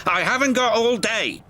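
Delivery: barked. A narrator's reading. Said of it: "barked Cranky".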